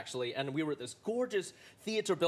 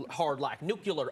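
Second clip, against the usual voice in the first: slow, leaning hard on the R's; lightly done hard-R American accent; 2 semitones lower, slower than usual. Retold or imitated. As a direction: drawl out "nuclear" with heavy R's. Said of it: "Maybe they hit the R's real hard".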